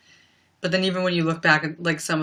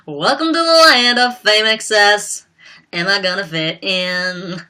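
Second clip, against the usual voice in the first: mock pop-star voice; 3 semitones higher, 5 dB louder than usual. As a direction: imitate her teen-star voice, nose-heavy. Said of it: "That's how I always hear her voice".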